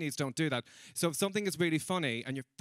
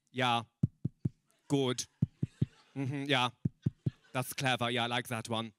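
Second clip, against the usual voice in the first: lightly voiced lower murmurs of approval; unlaughing audience; 4 semitones lower than usual. Viennese audience finding it really funny, mildly mocked restrained approval. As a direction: approve in short, detached remarks without laughing. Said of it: "you just hear the sound of this".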